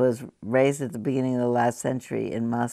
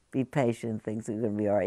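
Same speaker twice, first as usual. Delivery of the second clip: consoling voice; 4 semitones lower, faster than usual. Shown as a demonstration. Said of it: "a consoling voice that's gonna say".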